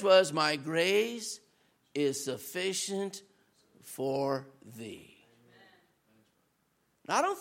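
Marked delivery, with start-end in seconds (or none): 0.3-5.3 low, soft and slow, hushed; low, hushed voice of God's reassurance; gentle divine reply. Retold or imitated. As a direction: speak it like a quiet promise from God. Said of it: "God's answer to his three prayers".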